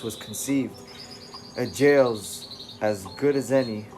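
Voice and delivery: put-on loose British accent for David; attempted British accent. David telling the reader about his mind, in a rough British accent. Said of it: "this will have to do".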